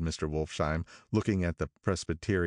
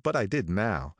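usual speaking voice

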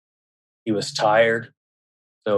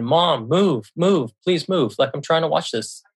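put-on higher-pitched child's mild protest; exasperated pleading; 5 semitones higher than usual. Son to his mom blocking the TV, exasperated pleading. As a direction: imitate a son begging, a little exasperated.

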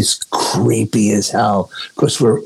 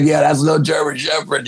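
higher, raised mock shout of a spooked friend; Brian's alarmed reply; 6 semitones higher than usual.

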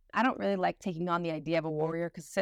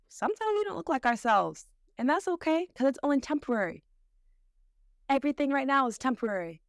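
upbeat encouragement; 5 semitones higher, faster than usual. Real, not acted. Uplifting reassurance to listeners.

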